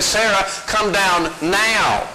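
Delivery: put-on slow, deliberate warning to a child; frustrated mother. Mother on the playground, slow and frustrated. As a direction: stretch each word out as patience wears thin. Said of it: "frustrated and said".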